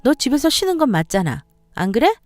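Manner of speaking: lightly acted condescending sister-in-law; a touch of smug put-down; sarcastic sister-in-law. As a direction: needle her with lively, pointed intonation. Voices the sneering sister-in-law.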